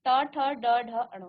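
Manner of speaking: ट, ठ, ड, ढ, अण said clearly with tongue curled back; teacher modelling the retroflex row; retroflex series demo. Shown as a demonstration. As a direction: sound out ट ठ ड ढ अण slowly for students. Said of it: "आप ट, ठ का उच्चारण कीजिए".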